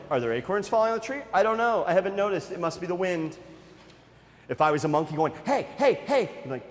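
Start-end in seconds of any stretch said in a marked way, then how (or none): 0.1-3.4 quick, mildly puzzled pretence of noticing nothing; feigned obliviousness. Acted. Jungle animals pretending the monkeys don't exist, feigned obliviousness. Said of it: "pretended the monkeys did not exist". 5.4-6.2 higher-pitched little monkey calls; mildly pestering for attention; calling for attention. Acted. Ignored monkey calling to the animals, pestering call.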